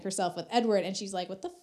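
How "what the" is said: outraged queen. Retold or imitated. Queen scolds her husband.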